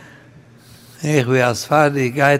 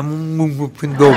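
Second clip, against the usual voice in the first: mouth-full mumble. Acted. Orange thief caught eating answers.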